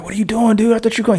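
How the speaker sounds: high, incredulous retelling; playful outrage at being blocked; mock disbelief.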